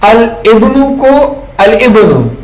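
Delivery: الابن read al-ibnu, lam with kasra joined to the ba; slow, drawn-out al-ibnu. Shown as a demonstration. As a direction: model joining the lam into ابن. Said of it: "ملا کر پڑھو".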